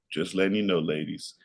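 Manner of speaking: normal talking voice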